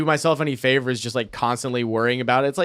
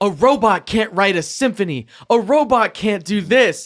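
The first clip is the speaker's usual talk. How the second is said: mock half-shout, mild, high and drawn out; 6 semitones higher than usual. Retelling a movie meme scene, imitating Will Smith yelling. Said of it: "yelling at the robot".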